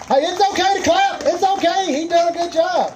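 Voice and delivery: rallying the crowd. Real, not acted. Emcee urges spectators to clap for angler, rallying.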